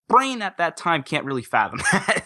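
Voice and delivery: a real laugh breaking into the words; laughing through it. Real, not acted. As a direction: chuckle as you say it. Amused at his younger self.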